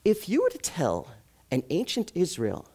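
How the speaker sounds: usual speaking voice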